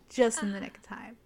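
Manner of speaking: mock-dramatic whispered repeat. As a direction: drop into a theatrical whisper for effect. Dramatic repeat of hero's line.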